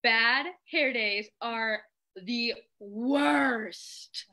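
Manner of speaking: very slow drawn-out lament; slow sulky character line; Icy lament. Acted. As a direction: drag it out like a diva. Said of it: "Icy said".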